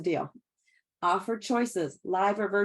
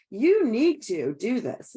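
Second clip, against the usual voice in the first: pushy command; 5 dB louder, much slower than usual. Retold or imitated. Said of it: "skip declarative words like".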